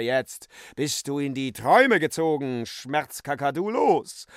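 a mock-terrible incantation rising to a shout. Böhm conjures the cockatoo with a terrible shouting voice. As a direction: build to a loud shout on los. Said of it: "redete mit furchtbarer Stimme".

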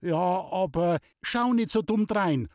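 sharp, irritated snap; angry. Acted. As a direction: scold the maid. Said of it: "fuhr Loni sie zornig an".

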